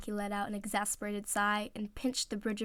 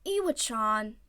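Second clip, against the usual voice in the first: whined; 3 dB louder, slower than usual. Acted. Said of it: "Oikawa whined, pouting".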